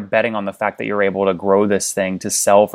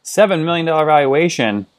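surprised; 7 semitones higher than usual. Real, not acted. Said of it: "That's a big valuation for no revenue".

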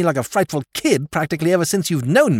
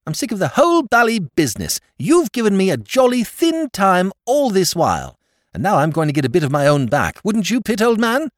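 high, loud complaining rant; aggrieved outburst; 11 semitones higher, 4 dB louder than usual. Acted. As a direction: pour out years of grievance. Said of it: "he cried".

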